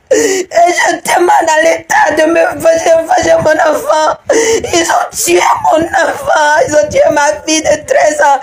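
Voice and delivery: grieving mother crying out for justice. Real, not acted. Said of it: "cette dame qui est en train de pleurer". (mère en deuil qui pleure et réclame justice)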